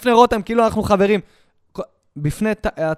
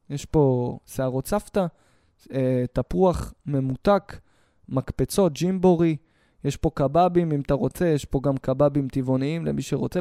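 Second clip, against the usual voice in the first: mock sales pitch; 7 semitones lower than usual. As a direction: reel off the fun-day goodies like a tired barker. Fun day listing, lowered. (נציג בנק מונה את הפינוקים ביום הכיף, בקול נמוך ואיטי)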